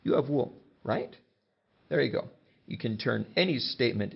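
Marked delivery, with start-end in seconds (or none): 0.0-1.2 YOU HAVE WOOL stated higher, then RIGHT lifted as a question; tag question. Shown as a demonstration. Teacher showing students a tag question, questioning RIGHT at the end. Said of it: "turn it into a question".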